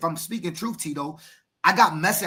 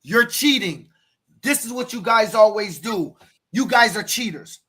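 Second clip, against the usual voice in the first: raised-voice imitation of angry team moms; mock screaming; 3 semitones higher, 4 dB louder than usual. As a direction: accuse them, mildly imitating a screaming parent. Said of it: "the teen moms were screaming".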